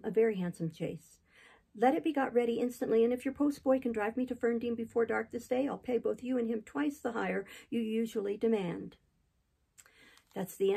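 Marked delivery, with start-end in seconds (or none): 1.7-9.0 a lightly voiced Jane, urgent and raised, higher; eager young Jane. Jane's voice ordering the chaise.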